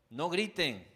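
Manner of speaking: put-on loud, scolding the children; yelling at the kids. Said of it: "ese es mi tema con, con mis hijos". (padre que alza la voz a sus hijos)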